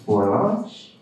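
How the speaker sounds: put-on slow, suspenseful Hispanic-accented announcement; grand Hispanic grandpa reveal. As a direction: draw out the big reveal with long pauses, Hispanic accent. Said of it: "And he's like".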